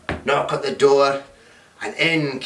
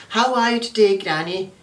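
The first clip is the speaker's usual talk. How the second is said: Red Riding Hood; 8 semitones higher than usual. Acted. Girl greets Granny.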